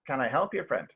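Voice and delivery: understated menace, dropping off on friend; threatening. Shown as a demonstration. Teacher shows tension before a bar fight, threatening. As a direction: make the polite offer a quiet warning. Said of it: "They're being threatening".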